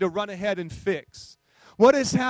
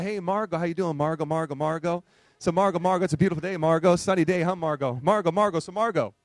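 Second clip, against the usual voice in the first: mock repetitive talk. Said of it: "that sounds a little odd".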